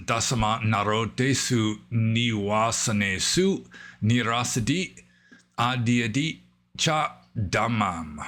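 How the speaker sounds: reciting the Pali verse with Burmese pronunciation; Burmese-style Pali. Shown as a demonstration. Teacher recites the Pali verse to students, Burmese pronunciation. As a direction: chant the Pali lines in the Burmese way, steady and measured. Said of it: "I'm used to Burmese pronunciation".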